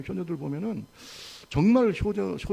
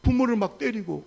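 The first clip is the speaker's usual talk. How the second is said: raised-pitch mock shock; astonished onlookers; 5 semitones higher than usual. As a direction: act out neighbours who can't believe it. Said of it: "주변의 사람들이 다 깜짝 놀라". (깜짝 놀란 이웃 흉내)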